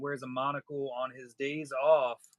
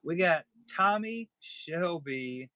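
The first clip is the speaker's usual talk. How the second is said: put-on Peaky Blinders accent; 4 semitones higher, slower than usual. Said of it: "It's the Peaky Blinder accent".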